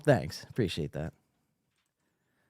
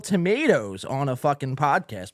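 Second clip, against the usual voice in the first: out of breath; 3 semitones higher than usual. Real, not acted. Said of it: "I'm out of breath".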